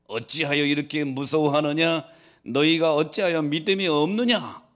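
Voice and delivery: loud, high-pitched scolding in a preacher's quote; stern rebuke. Retold or imitated. Jesus reproving his fearful disciples, stern rebuke. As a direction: reprove them forcefully, rising in pitch. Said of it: "제자들을 꾸짖습니다".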